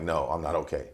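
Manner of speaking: laughing through the line. Real, not acted. Recalling what he told his girlfriend, laughing. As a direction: chuckle while telling it.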